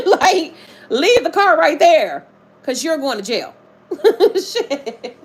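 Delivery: amused laughing retelling. Real, not acted. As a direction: crack up retelling the jail bit. Laughing at the jail story.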